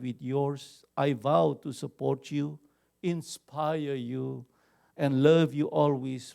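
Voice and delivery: slow, tender reading of a wedding vow. Retold or imitated. Pastor quoting a wife's vow to her husband, slow and tender. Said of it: "istri yang mengungkapkan janji nikah".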